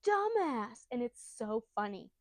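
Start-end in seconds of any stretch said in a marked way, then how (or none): 0.1-0.9 high, drawn-out cartoon scolding; exasperated anime yell. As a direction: slowly stretch out the mock-angry insult. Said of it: "He says in the anime".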